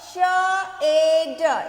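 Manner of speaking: श ए ड drawn out sound by sound; letter sounds. Shown as a demonstration. Teacher sounding out for children, श ए ड in separate sounds. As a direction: stretch and separate श ए ड. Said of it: "एस को क्या बोलेंगे".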